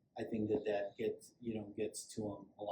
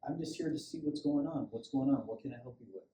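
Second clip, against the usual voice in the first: calm friendly tone; 2 semitones higher than usual. Shown as a demonstration. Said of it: "I just talked to them like that".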